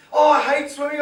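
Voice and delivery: mock sulky swimmer; whiny athlete. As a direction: groan it like a sulky kid. Athlete whining at coach.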